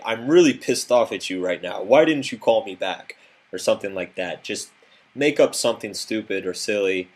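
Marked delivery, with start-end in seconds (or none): 0.0-3.2 a touch of staged anger; mock angry rant. Shown as a demonstration. Coach demoing anger practice in the mirror, mock angry. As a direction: play at being mad at a friend in the mirror. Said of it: "put my angry face on and say".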